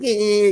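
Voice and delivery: drawn-out mimicked "eh, eh"; mocking twirl noise. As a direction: imitate someone showing off with silly noises. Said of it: "kinda imitating the guy".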